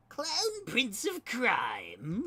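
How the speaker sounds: high, drawn-out theatrical villain; hammed-up, slow cartoon Clown Prince of Crime; classic Joker. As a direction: stretch the words out high and loud like a classic Joker. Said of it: "He was doing, like, a, a classic".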